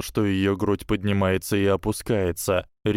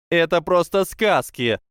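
much higher, louder scoffing cry; exclaimed; 9 semitones higher, 4 dB louder than usual. A narrator's reading. Parvati dismissing the legend, high exclamation. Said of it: "воскликнула Парвати".

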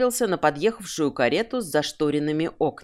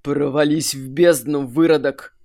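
roaring; 2 semitones lower, 4 dB louder than usual. Acted. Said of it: "взревел Аврас".

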